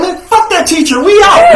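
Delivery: laughing retold outburst. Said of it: "I was like".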